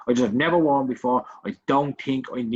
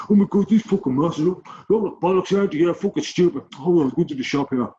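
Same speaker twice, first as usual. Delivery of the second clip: mock complaining; 5 semitones higher, 3 dB louder than usual. Mimicking everyone else moaning about masks, mock complaining. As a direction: imitate a moaner, raised and agitated. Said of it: "complaining about how ridiculous it is".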